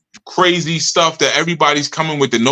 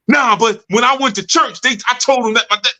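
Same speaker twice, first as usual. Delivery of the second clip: pitched-up whiny member making excuses; mock whiny excuse; 7 semitones higher than usual. Follower whining excuses to the teacher, pitched-up mock whine. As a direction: whine it like a student dodging blame.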